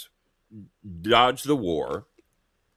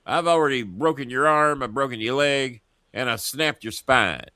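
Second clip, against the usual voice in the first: hammed-up taunting threat, pitched up; mock confrontation; 5 semitones higher than usual. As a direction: play a neighbour boasting after a beating. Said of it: "going, "Hey, motherfucker".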